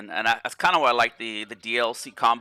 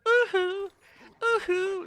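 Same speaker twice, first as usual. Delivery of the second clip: very high falsetto "ooh-hoo"; high-pitched pop-star yelp, repeated after a beat; a famous pop singer's whoop; slower than usual. Retold or imitated. Gamer mimics his wigging-out character, a famous pop singer's whoop. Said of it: "He's doing the Michael Jackson".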